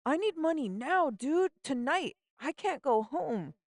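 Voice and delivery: put-on high, pleading girlfriend voice, rising in panic; a scared teen begging for a way out; Simone, panicked. Simone begs her friend to find money tonight, high frantic plea.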